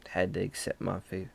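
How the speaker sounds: quiet resigned sigh into words. Retold or imitated. Dreamer accepting his fate, resigned. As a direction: sigh and give in softly. Retelling how he gave up.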